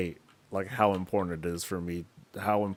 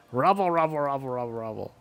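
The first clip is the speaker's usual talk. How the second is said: hammed-up grumbler, starting high and trailing down; mock complaining; 5 semitones higher than usual. Gamer mimicking players who get frustrated, mock complaining. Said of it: "Get frustrated, then complain".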